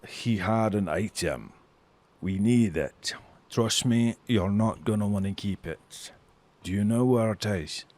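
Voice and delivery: lightly voiced dwarf, measured opening; confiding dwarf. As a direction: press for the answer in earnest.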